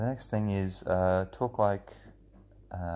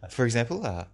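higher, louder, halting presenter voice; ABC podcaster; 3 semitones higher, 4 dB louder than usual. Shown as a demonstration. Demonstrating how ABC podcasters talk, mannered halting voice. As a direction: parody a public-radio podcaster, breaking up the phrases. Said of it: "a demonstration of how an A B C podcaster talks".

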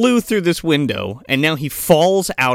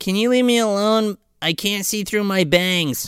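mock timid schoolgirl; 4 semitones higher, 3 dB quieter than usual. Acts picked-on girl pleading.

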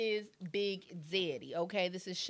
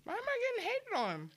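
high, quick whispered whine; mock-aggrieved whisper; 11 semitones higher, faster than usual. Real, not acted. To the crew after the stream fails, a whispered whine. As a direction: whine it under your breath.

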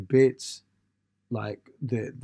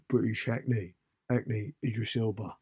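lightly imitated London tone; a hint of a British actor's own voice; Idris Elba; 4 dB quieter, slower than usual. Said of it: "Sounds a bit like that. That's not a great impression".

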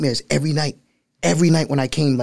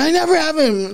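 mock whiny complaining. Retelling complaint to his mom.

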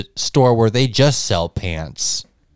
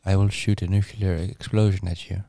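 soft supervillain; 4 semitones lower, 6 dB quieter than usual. Retold or imitated. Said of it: "supervillains talk very soft".

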